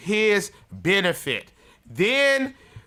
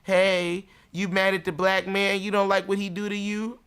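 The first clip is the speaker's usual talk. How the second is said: sly smooth-talking white man; 3 semitones higher than usual. Retold or imitated. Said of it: "He said".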